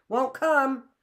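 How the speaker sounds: loud, high refusal shouted back; stubborn shout. A narrator's reading. Boy refusing the girl again, shouting stubbornly. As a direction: fling the refusal back at her. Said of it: "cried he again".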